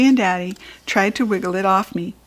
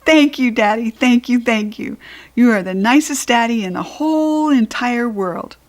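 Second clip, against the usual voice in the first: happy thanks; 3 semitones higher than usual. Acted. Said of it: "very happy".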